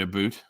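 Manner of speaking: "a boot" with a long oo; "about" turned into "a boot"; mistaken Canadian stereotype. Shown as a demonstration. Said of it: "people think we say".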